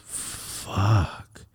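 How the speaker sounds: breathless whispered curse; whispered fuck. Retold or imitated. Friend hearing the bad news, whispered. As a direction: whisper it in dismay.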